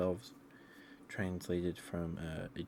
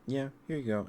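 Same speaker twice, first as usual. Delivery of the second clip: breezy mock God; 8 semitones higher, 6 dB louder than usual. God obliges, retold.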